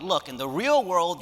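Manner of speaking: "Look, in the real world" said slowly but near plain; understated stern lecture; earnest retelling. Retold or imitated. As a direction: state it like a firm professor. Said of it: "When I pointed out that".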